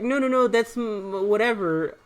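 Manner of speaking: high-pitched imitation of someone protesting; mock denial. Voicing the other person's denial.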